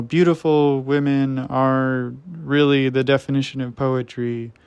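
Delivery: lightly mock poetic proclamation; heralding old poet. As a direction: declaim it a little, like an old-time poet.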